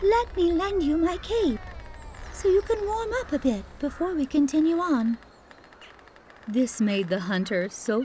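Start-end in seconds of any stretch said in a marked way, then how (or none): 0.0-5.2 kindly offering her cape; Snow White, gentle. Acted. Snow White speaks to hunter.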